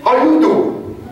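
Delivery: high, very slow New York Italian drawl; New York Italian catchphrase. Retold or imitated. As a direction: stretch out the Italian guy's greeting teasingly. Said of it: "Just imagine a little Italian guy".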